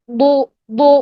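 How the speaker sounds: بو with tongue sides up on the back molars; heavy back ضو. Shown as a demonstration. Teacher corrects the dal, heavy back ضو. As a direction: push بو full from the back. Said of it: "پیچھے سے زبان کی سائیڈز کو".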